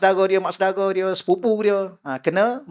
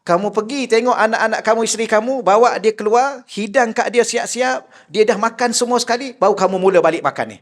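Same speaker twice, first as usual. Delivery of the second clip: raised, stern scolding voice, higher and louder; scolding sheikh; 4 semitones higher, 3 dB louder than usual. Retold or imitated. Sheikh scolding the hungry husband, raised angry voice. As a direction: tell him off like an angry sheikh.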